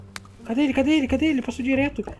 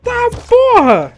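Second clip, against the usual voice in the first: triumphant shout; 9 semitones higher, 3 dB louder than usual. Real, not acted. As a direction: roar out the win. Celebrating a headshot.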